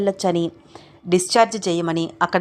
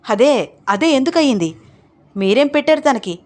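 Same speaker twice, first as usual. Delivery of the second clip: higher and louder, demanding answers; angry outburst; 5 semitones higher, 5 dB louder than usual. Acted. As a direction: accuse Ram hotly. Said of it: "కోపంగా మాట్లాడుతున్న అన్నపూర్ణమ్మ".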